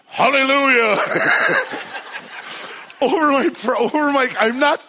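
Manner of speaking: the pastor praying over the dead car, exultant; joyful praise. Retold or imitated. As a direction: shout it like a praise break. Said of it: "and he starts".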